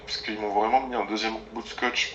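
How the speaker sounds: ordinary talk, nothing marked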